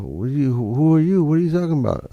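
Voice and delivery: mock angry what are you talking about; aggressive retort. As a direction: snap back like an angry drunk.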